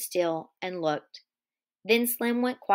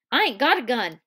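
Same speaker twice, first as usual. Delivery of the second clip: excitedly; 3 semitones higher, 5 dB louder, faster than usual. Acted. Whit to the posse, excited. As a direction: blurt it eagerly. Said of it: "Whit said excitedly".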